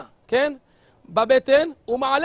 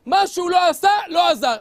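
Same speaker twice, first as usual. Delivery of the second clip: loud, high burst of narration; emphatic shout; 6 semitones higher, 6 dB louder than usual. A narrator's reading. Preacher shouting the punchline to the congregation. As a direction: drive the point home, shouting. Preacher builds story climax.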